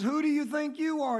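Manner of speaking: mock indignant. Burglar challenges the talking parrot, in mock indignation.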